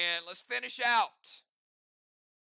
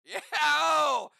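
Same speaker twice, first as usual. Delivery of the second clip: high, loud whoop; whooping shout; 7 semitones higher, 10 dB louder than usual. Acted. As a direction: burst out with a showman's yell. Whoop after his impression of a singer.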